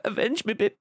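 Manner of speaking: high, hammy dying plea; milk the death for laughs; overacted death scene. Plays his dying game character.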